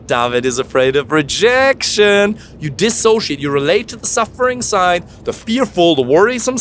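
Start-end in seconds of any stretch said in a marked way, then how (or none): 0.0-2.4 tender self-talk. Shown as a demonstration. Speaking kindly to his fearful side, slow and tender. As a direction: comfort a scared child inside. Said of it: "Or you say".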